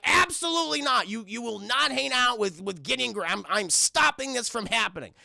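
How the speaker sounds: mock-stern ban, emphatic opening; Grunkle Stan. Stan forbidding the friendship, mildly hammed-up upset. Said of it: "he is very upset".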